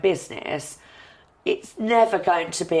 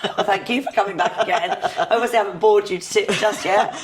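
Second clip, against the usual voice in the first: hoarse, croaky voice from the flu; croaky after being ill. Real, not acted. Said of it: "You're sounding very croaky".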